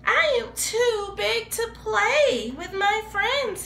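put-on a little crybaby whimper for the kids; sobbing. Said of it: "he sobbed".

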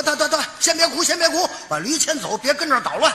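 flustered hushing. Retold or imitated. Breaking up the crying and chaos.

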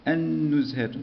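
النزهة with no l and a long doubled n. Shown as a demonstration. Teacher confirming the shadda, doubled n held. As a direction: hold the n of النزهة where the lam is silent. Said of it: "شدة".

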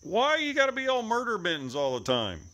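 high exclaimed complaint, falling gradually; mock scolding. Real, not acted. Owner asking why the cat fights, high mock scolding.

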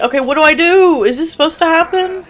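high, anxious questioning; scared. Real, not acted. Gamer unsure what is supposed to happen, scared. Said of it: "I'm so scared".

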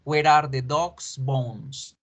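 slow, "dog's" said /doks/; singular version. Shown as a demonstration. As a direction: repeat "dog's" with one s. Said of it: "Número uno".

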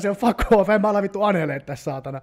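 fast, loud and high rant; excited defiant rant. Real, not acted. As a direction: rattle it off fired up. (kiihtynyt, uhmakas vuodatus)

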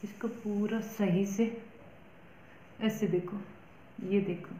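lips framed by mask cutout; speaking while patting the face; talking with a sheet mask on. Real, not acted. Seen 1: Wet sheet mask on face, lips through cutout, smoothing it on.

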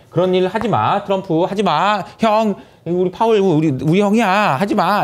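theatrical protective whine; mock pleading. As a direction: beg them to stop, hammed up. Voices reporter pleading with Trump.

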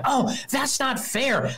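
high, slow whiny complaint; mock whine. Mocking a whiner crying foul, high slow whine. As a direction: whine it like a sore loser. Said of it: "I'm not crying like".

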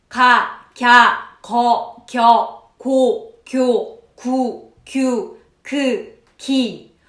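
clipped, separate loud syllables; staccato. Shown as a demonstration. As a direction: chop each syllable off sharply. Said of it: "딱딱 끊어서 스타카토로".

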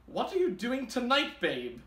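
lightly voiced flirty peacock, high then dropping on babe; a hint of a coy come-on; reading Miss Peacock's note. Host reading the peacock's flirty note, mild flirty voice. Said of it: "Signed, Miss Peacock".

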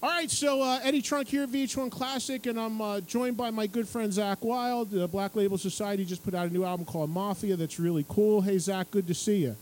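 chirpy interview opener; cheerful presenter read; TV host intro. Retold or imitated. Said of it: "I'm like".

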